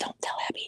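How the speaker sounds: soft, breathy, secretive whisper. Telling another shopper to keep a secret from Abby: whispering. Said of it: "she heard me whispering".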